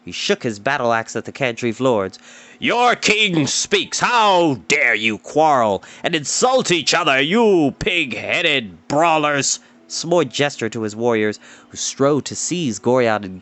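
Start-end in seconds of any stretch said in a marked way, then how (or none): 2.6-9.6 slow, booming royal scolding; blustering king. Acted. King scolding two lords, slow and booming. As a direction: thunder at the brawlers.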